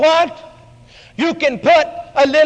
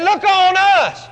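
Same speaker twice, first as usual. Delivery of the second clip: slow command; 4 semitones higher, slower than usual. Acted.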